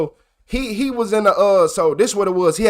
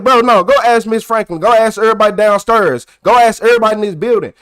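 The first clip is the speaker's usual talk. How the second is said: retold heated protest; 3 semitones higher, 3 dB louder than usual. Telling the principal to go ask everyone, raised and insistent. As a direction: push back, daring him to check. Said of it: "So now I'm mad".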